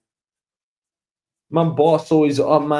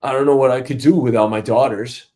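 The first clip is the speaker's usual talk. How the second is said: boss reminiscing; 4 semitones lower than usual. Retold or imitated. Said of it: "boss talking of kids".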